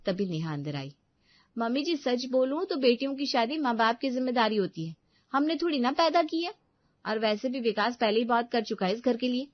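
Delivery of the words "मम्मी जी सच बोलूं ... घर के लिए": put-on loud, higher, sneering young wife; haughty daughter-in-law. Daughter-in-law to mother-in-law, haughty and loud. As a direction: put the old woman in her place.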